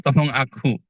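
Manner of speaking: a hint of a contrite tax collector praying; humble sinner's prayer. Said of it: "si pemungut cukai itu berdoa".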